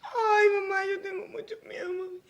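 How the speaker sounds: tearful, frightened sobbing words; crying in fear. Acted. Beaten daughter sobs to her mother that she is afraid. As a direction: cry it out to your mother.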